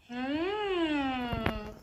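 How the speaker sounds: gentle straw phonation hum. Shown as a demonstration. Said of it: "So I go".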